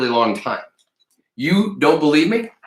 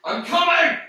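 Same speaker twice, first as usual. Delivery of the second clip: calling out. Real, not acted. Calling out from far away.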